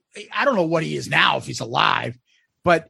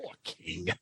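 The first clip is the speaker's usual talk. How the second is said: whispered aside; 19 dB quieter than usual. Retold or imitated. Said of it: "It's like".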